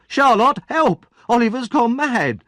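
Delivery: high, loud cry for help; calling for help. Acted. Noah yells to Charlotte for help, high and loud. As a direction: yell across the house for rescue.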